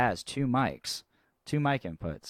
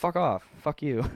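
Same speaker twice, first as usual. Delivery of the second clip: high, louder mock kid snapping back; bratty kid cursing; 7 semitones higher, 4 dB louder than usual. Imitating the kid cursing back at the drummer, high and louder. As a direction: ham up a little kid telling the adults off. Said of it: "the kid would be like".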